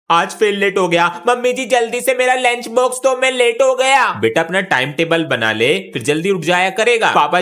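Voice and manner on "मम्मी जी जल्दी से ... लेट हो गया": hurried call. Acted. Late child calling to mother.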